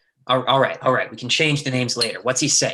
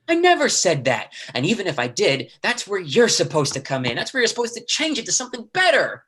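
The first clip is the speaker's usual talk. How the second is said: furious berating; 8 semitones higher than usual. Acted. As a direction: tear into him, pitch climbing. Lee berates his brother.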